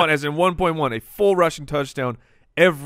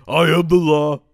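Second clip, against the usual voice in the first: stern judge voice; 6 dB louder than usual. Pretend.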